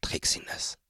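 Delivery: breathy whispered encouragement; encouraging. A narrator's reading. Aram holds Trixie's hand and whispers encouragingly. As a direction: gently lift her spirits. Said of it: "sagte aufmunternd".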